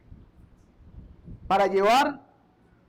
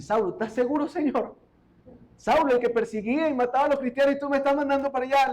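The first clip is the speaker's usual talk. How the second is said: incredulous Ananias; 3 semitones higher, faster than usual. Acted. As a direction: rush out the objection in disbelief. Ananias protests to God, comic.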